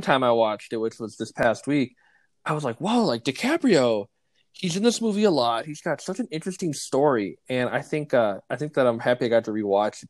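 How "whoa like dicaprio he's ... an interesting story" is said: mildly wowed, pitch lifted; amazed realization. Retold or imitated. Film fan recounting a rewatch, mildly amazed. Acting out own amazed reaction.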